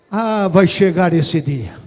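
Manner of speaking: slow, low, firmly projected; solemn preacher's promise. Real, not acted. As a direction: hold back before the build, drawing it out. Repete a promessa em crescendo. (promessa solene, lenta e grave)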